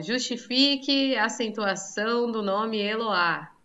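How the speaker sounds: leitura pausada de questão de prova; enunciado de prova. Acted. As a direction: dite devagar, como enunciado de prova. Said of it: "Se eu colocasse numa prova, assim, ó".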